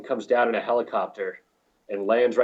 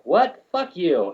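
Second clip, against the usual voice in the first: indignant retort; 7 semitones higher, 4 dB louder, much slower than usual. Retold or imitated. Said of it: "And I was just like".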